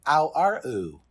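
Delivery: mock Cockney vowels, starting loud; attempted Cockney. Shown as a demonstration. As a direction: throw out exaggerated Cockney noises. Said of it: "I wish your Cockney accent was better".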